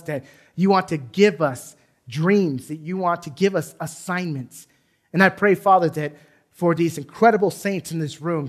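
earnest pastoral prayer, steady and fervent; closing prayer. Acted. Pastor praying over the congregation, earnest and fervent. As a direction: pray over the room, calling on the Father.

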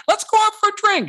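high, bright invitation; eager friend voice. Retold or imitated. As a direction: squeal it like a friend begging you out. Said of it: "everybody's like".

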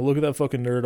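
put-on "Look at that fucking nerd" in a light New Zealand accent; a lightly imitated New Zealand accent on "Look at that fucking nerd". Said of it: "but in his New Zealand accent".

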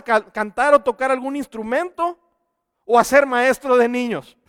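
rising pulpit intensity; fervent preaching. Acted. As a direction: press the point to the congregation. Raised emphatic preaching.

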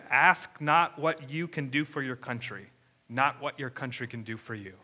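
put-on a rough, self-admittedly terrible JFK accent. Pastor imitates JFK's speech to the congregation in a clumsy JFK accent. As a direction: mimic JFK's inaugural line in his accent, a bit hammed-up. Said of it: "I'm gonna try to do the accent as well".

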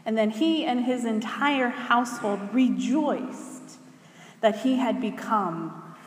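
measured, expressive public Bible reading; Scripture reading. Acted. Reading a story from Acts to the congregation, measured Scripture reading. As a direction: read the passage out with deliberate pauses and weighted phrase endings. Reads a Scripture passage aloud.

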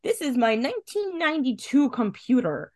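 lightly hammed-up crazed boasting, amused; Wyndham Earl. Host recapping a villain showing off, mock maniacal.

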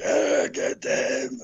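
raspy, high-pitched drawn-out villain scream; strangled screech, stretched out slowly; Krulos screaming. Acted. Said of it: "when he was screaming".

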